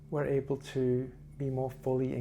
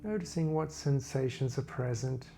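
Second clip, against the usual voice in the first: calm body-scan narration, phrases spaced far apart; guided meditation; 3 dB quieter than usual. Real, not acted. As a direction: guide listeners gently through a body scan, unhurried.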